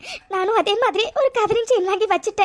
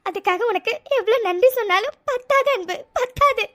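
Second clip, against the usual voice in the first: tearful, half laughing gratitude; crying; 2 semitones higher than usual. Acted. Telling her husband he alone saved the chain, in tears. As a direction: laugh and cry at once. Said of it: "என்ன இது இப்படி அழுதுட்டு இருக்கா".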